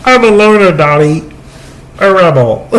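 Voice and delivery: put-on high, playful man-child voice; Pee Wee Herman impression. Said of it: "I just did Pee Wee Herman".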